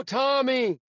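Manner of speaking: mock shout of his name across the course; calling out. A fan calling out to Tommy from the gallery, mock shout.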